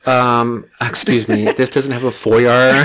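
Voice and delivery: 1 snooty buyer. Retold or imitated. Mocking picky house buyer.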